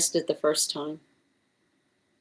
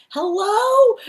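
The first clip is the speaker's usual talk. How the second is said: very high, louder, chirpy cat hello; imitating a cat saying hello; 7 dB louder than usual. Owner imitating her cat saying hello, high chirp. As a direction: mimic the cat's sing-song hello. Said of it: "She goes".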